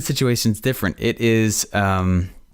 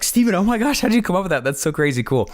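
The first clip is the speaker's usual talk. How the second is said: mock gushing fan, pitched higher; imitating gushing fans; 5 semitones higher, faster than usual. Admirers praise Steven's system, hammed-up gushing higher voice. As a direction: gush like an amazed follower.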